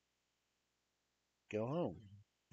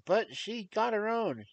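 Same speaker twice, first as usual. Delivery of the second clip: whiny protest; 14 semitones higher, 12 dB louder than usual. Retold or imitated. Kid protests to mom.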